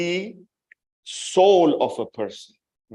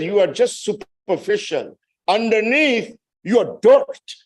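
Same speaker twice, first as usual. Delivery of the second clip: rising, louder, scathing rebuke; blunt condemnation; 7 semitones higher, 4 dB louder than usual. Retold or imitated. Preacher retelling Zainab telling them they are dirt, scathing. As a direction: build to a hard, high hit on the last word. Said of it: "She doesn't mince her words".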